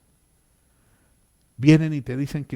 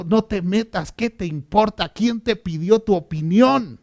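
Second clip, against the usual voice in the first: higher-pitched indignant questions; indignant rebuke; 5 semitones higher, 3 dB louder than usual. Retold or imitated. David tells his man to stay out, indignant rebuke. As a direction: tell them off, rising in force. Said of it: "O sea, le está diciendo".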